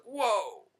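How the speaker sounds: loud, high exclamation of astonishment; retold amazement. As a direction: act out being blown away. Retold amazement at waiter's Arabic.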